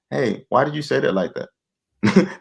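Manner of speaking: slow, softened asking; gentler question. Shown as a demonstration. Husband asking his wife the better way, gentle question. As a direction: ease into it, drawing the question out. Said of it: "you can say it like this".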